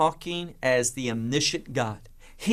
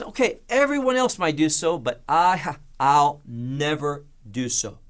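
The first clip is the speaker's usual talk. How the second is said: proud boast. Retold or imitated. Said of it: "he shows that he's different".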